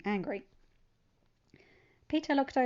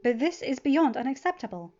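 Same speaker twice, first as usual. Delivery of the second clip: fierce and much louder, slowing; angry; 5 semitones higher, 9 dB louder than usual. A narrator's reading. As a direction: protective anger rising. Pepper furious over son's bullying.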